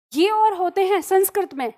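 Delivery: ordinary talk, nothing marked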